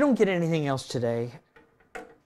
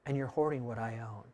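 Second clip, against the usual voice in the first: God speaking; 3 semitones lower, 8 dB quieter than usual. Acted. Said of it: "That's what basically God is saying".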